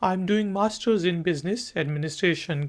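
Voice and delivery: slow, careful phrase for learners to copy; slow model answer. Shown as a demonstration. Teacher models the student's answer slowly. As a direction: spell each word out slowly like a teacher. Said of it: "तो आगे से आप जवाब दे सकते हैं".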